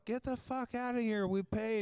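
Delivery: high-pitched mock yell; imitated yell. Woman telling the camp host off, mock yell. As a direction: imitate an indignant camper yelling back. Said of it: "And she yells".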